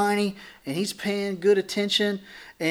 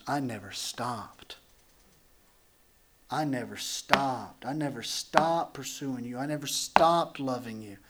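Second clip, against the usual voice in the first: tender reassurance; 4 semitones lower, 4 dB quieter than usual. Retold or imitated. God voiced tenderly.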